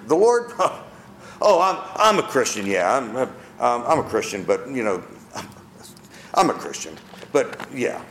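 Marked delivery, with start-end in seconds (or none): 1.5-7.0 stammering, fading to a laughing whisper; sheepish mock denial. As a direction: act the embarrassed Christian hiding faith.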